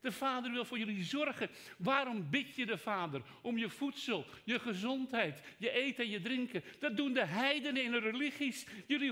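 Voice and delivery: high, loud pulpit preaching; fervent sermon voice; preaching at full force. Acted. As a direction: drive the sermon home, ringing out to the hall.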